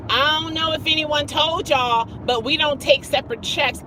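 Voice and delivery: imitating a confrontational server; sassy waitress. Waitress warning the party about separate checks, sassy. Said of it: "she's all with the hands".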